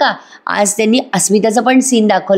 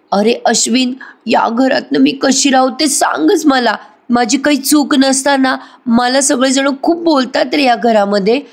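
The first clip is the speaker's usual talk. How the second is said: higher whiny put-on sob to win sympathy; fake crying; 5 semitones higher than usual. Wife complains to Ashwin with fake crying. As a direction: play the crocodile tears, voice pitched up and pleading. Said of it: "आता ही अशी रडायला लागते".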